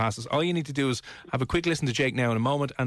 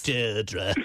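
Coronation Street Deirdre; 5 semitones lower than usual. Pretend. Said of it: "it's very Coronation Street".

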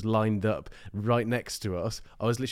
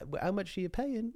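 mock demand; 8 semitones higher, 8 dB quieter than usual.

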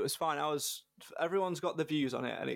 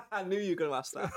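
laughing; 4 semitones higher, faster than usual. Real, not acted. Guest laughs at biscuit question.

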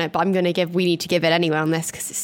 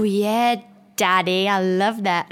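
mock sultry moan; 3 dB louder, slower than usual. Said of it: "impersonating it".

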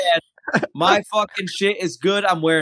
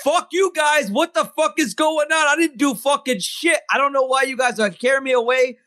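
raised, higher, indignant protest; furious prisoner protesting innocence, raised and high; indignant outburst; 5 semitones higher than usual. Acted. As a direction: yell it at the guards, outraged and pitched up. Vasilius protests being led away.

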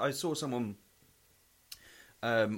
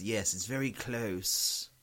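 mock boss; much slower than usual. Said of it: "I had this boss".

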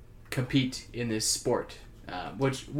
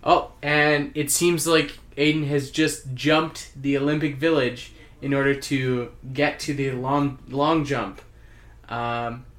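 sports commentator. Acted. Takes over sports commentary.

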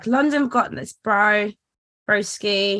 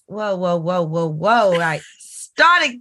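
Brummie rant; 3 semitones lower, 3 dB louder, slower than usual. Retold or imitated. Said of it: "comes out when you're ranting".

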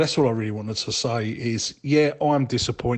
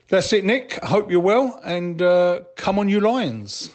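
rousing sign-off; 9 semitones higher, 6 dB louder than usual. Real, not acted. Caller signs off rallying fans.

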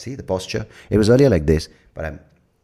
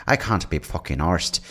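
put-on Irish accent; 4 semitones higher than usual. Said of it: "as the Irish were like".

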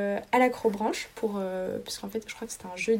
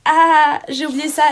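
panicked gasp; 6 semitones higher, 12 dB louder, slower than usual. Retold or imitated. Panicked exam memory quote.

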